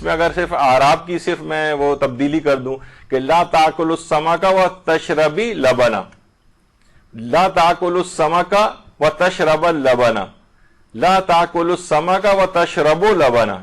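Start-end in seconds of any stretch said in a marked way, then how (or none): 3.2-6.0 تشربی with ی ending, slow and clear; vowel marks demo. Shown as a demonstration. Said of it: "یعنی زیر زبر پیش صرف میں نے تبدیل کی ہیں". 7.1-10.1 تشرب said with a clipped end, slow; slowly, تشرب اللبن; vowel marks demo. Shown as a demonstration. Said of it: "یعنی زیر زبر پیش صرف میں نے تبدیل کی ہیں". 10.9-13.6 تشربوا with و ending, slow; vowel marks demo. Shown as a demonstration. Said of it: "یعنی زیر زبر پیش صرف میں نے تبدیل کی ہیں".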